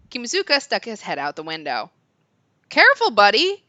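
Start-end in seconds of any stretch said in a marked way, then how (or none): 2.7-3.6 loud high shout. Acted. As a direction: yell out the window. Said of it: "he shouted".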